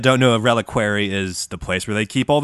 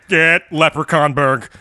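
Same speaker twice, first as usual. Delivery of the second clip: fake Irish accent; 4 semitones higher than usual. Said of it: "And he'd be like".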